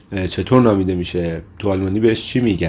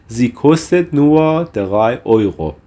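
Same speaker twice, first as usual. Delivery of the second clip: slow, measured German for learners; slow model phrase; much slower than usual. Shown as a demonstration. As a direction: model the phrase slowly, word by word. Teacher models German example sentence.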